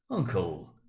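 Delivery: pleading. A narrator's reading. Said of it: "pleaded the nephew".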